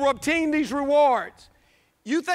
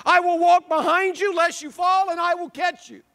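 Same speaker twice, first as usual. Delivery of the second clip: impassioned divine promise; 4 semitones higher than usual. Acted. Preacher voices Christ's promise to believers.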